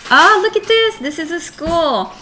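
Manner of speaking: a burst of surprise at the page; thrilled gasp at a school picture; excited. Real, not acted.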